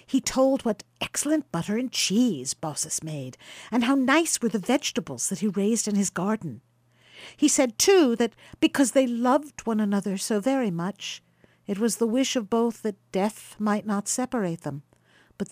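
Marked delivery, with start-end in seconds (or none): none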